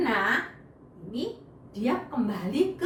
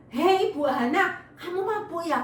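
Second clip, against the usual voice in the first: mild rebuke; 4 semitones higher, 4 dB louder than usual. Acted. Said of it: "ditegur sama Bapak Elinya".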